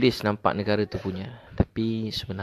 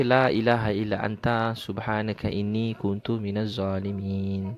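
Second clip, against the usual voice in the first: slow prayer recitation; slower than usual. Shown as a demonstration. Ustaz reciting the doa for the congregation, slow and devout. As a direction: recite it slowly and evenly, like a prayer.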